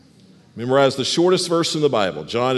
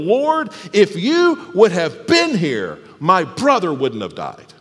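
grieving plea; 3 semitones higher, slower than usual. Acted. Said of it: "she fell at his feet and told him".

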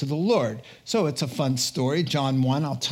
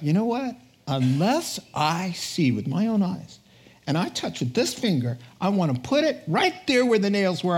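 stubborn doubt; 3 semitones higher than usual. Acted. Thomas insisting stubbornly.

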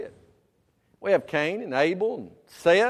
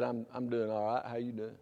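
half-hearted lie; 6 semitones lower, 8 dB quieter than usual. Retold or imitated. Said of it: "you lied and said".

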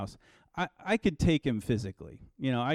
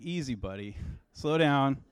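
calming God; 4 dB quieter than usual. Pretend. God voiced calming angry Jonah.

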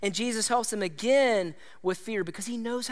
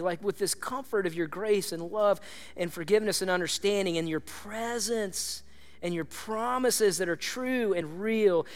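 heartfelt prayer; 2 semitones lower than usual. Real, not acted. Preacher praying to God over music, heartfelt. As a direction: pray from the heart.

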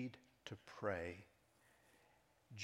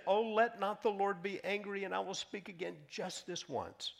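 earnest plea; 9 semitones higher, 5 dB louder than usual. Acted. Abraham pleading with God.

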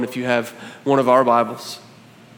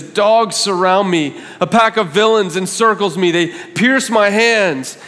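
anguished psalm reading; 5 semitones higher, 4 dB louder than usual. Acted. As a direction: feel the attackers closing in. Reads verse sixteen.

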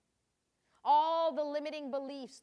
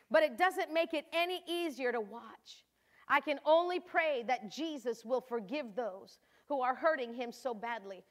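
Mary, anguished mother; 7 dB louder than usual. Acted. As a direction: read it as Mary watching her son beaten. Mary's diary entry resumes.

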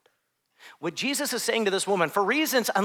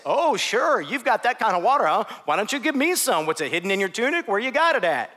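mocking, incredulous woman at the well; sarcastic. Shown as a demonstration. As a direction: scoff at his offer. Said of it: "if you read it as sarcasm, it might sound like this".

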